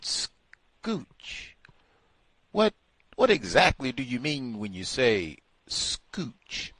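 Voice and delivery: slow, bewildered questioning; mock a baffled interviewer; puzzled interviewer. Asking the rioter about scooch, bewildered.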